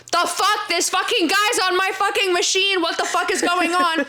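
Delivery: high, exaggerated indignant swearing; mock angry rant. Friend imitating her fuming at men on her machine. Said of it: "she loudly was like".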